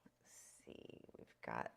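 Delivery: whispered to herself; soft whisper. Real, not acted. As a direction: murmur it under your breath. Whispering while drawing.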